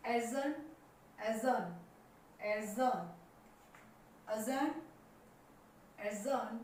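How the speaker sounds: adjourn as "एजन", a-zun, no D; silent D. Shown as a demonstration. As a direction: drop the D in "एजन". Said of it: "डी silent है". ("एजन" में डी silent)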